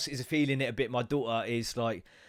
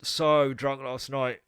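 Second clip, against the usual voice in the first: drawn-out, very slow hungover moan; slow groan; much slower than usual. Acted. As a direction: drag the words like a wrecked drinker. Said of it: "And the first one's like".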